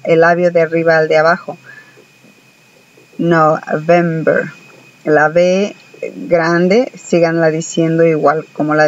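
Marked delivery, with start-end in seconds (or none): 3.2-4.5 November said slowly with both lips on the V; slow model with the V as a B; Spanish-style B. Shown as a demonstration. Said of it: "pegan los labios de arriba a los de abajo".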